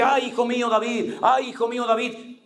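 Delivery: high, hammed-up lament; mock remorse. Saul lamenting to David with crocodile tears, mock remorse. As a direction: imitate a tearless show of remorse. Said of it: "Y otra vez se compunge".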